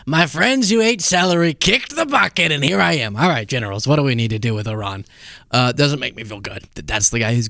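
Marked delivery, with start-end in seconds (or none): 0.1-5.1 mock president. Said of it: "So that's how it ended".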